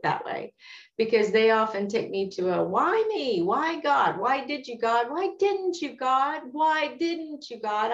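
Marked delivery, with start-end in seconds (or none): 2.6-7.9 anguished why questions. Retold or imitated. The believer railing at God with why questions, pleading. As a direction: pitch climbing high on each plea, voice pleading. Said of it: "I've said that a gazillion times".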